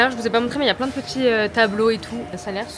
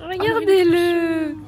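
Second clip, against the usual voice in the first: drawn-out delighted call; excited cooing; 7 semitones higher, 6 dB louder, much slower than usual. Real, not acted. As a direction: coo over the cute animal. Cooing at a scratching animal. (appel ravi et traînant)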